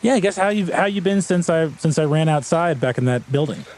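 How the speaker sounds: fox speaking. Acted. GM voices the fox.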